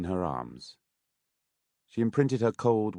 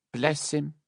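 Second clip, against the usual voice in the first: higher fawning aside; gushing Mrs Mann; 9 semitones higher than usual. A narrator's reading. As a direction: coo it falsely.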